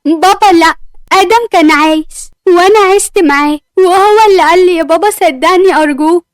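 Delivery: upset pleading. Acted. Daughter argues with her father.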